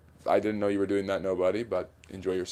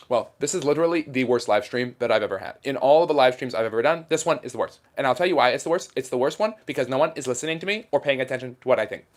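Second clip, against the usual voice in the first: lightly voiced debating pundit, slightly raised; Ben Shapiro impression; 3 semitones higher, 3 dB louder than usual. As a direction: argue it point by point like a fast-talking commentator. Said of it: "Do a Ben Shapiro impression?".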